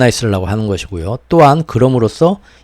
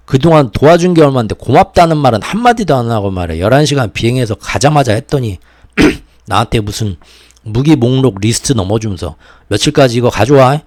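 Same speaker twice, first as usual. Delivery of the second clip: imitating offended leaders, raised and huffy; mock indignant rant; 2 semitones higher, 4 dB louder than usual. European leaders venting at Zelensky, mock indignant. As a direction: grumble like a slighted benefactor. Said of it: "발끈했죠".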